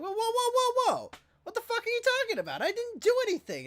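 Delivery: frantic protest. Retold or imitated. Boy hearing his suspension from the principal, frantic loud protest. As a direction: stop them in their tracks, pleading innocence.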